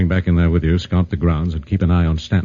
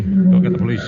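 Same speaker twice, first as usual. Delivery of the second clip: urgent shout; 12 semitones higher than usual. Acted. Urgent order after the screams.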